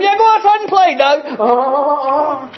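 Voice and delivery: mock mom yelling from the other room; mom yelling from another room. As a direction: shout it off-handedly across the house. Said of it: "would have yelled from the other room".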